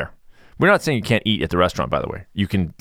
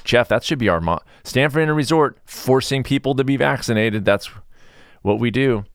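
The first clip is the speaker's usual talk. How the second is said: sarcastic slogan; 4 semitones higher than usual. Retold or imitated. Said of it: "I was like".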